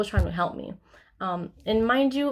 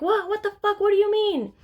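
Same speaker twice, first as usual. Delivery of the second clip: high-pitched mom yelling in shock; shrieky retold outburst, louder; imitated yelling; 12 semitones higher, 5 dB louder than usual. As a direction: mimic an alarmed mother shouting in the background. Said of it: "they were just yelling".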